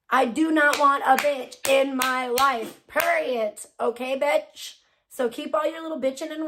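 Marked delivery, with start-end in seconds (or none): 0.1-2.8 slow, each word of "I do not want" set apart; deliberate, word-by-word "do not want"; emphatic refusal. Real, not acted. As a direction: spell it out slowly, stressing "not". Emphatic refusal after heated rant.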